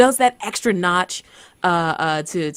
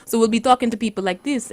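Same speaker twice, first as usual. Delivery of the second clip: Wakandan accent; 4 semitones higher, faster than usual. Shown as a demonstration. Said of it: "we speak in a Wakandan accent".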